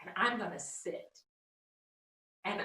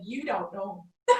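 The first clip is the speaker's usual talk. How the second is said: laughing retort; 5 dB louder than usual. Retold or imitated. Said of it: "And I said".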